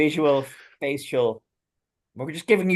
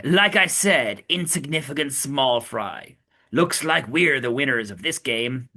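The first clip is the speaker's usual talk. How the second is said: plain character read; slower than usual. Acted. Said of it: "forgot my Brooklyn accent for Sanji".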